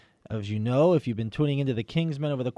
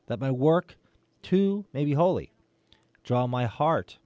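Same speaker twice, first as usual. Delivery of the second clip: prayer; 2 semitones lower than usual. Acted. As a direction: pray it reverently, phrase by phrase. Leads the opening prayer.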